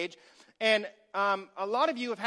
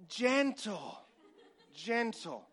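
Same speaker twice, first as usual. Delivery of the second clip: laughing; 4 dB quieter, much slower than usual. Real, not acted. Laughs while repeating gentle.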